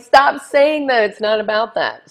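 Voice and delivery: hammed-up exasperated producers; mock scolding. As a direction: tell her off loudly.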